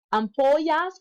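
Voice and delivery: "Ampollas" with the double L as a Y sound. Shown as a demonstration. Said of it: "a double L makes a Y sound".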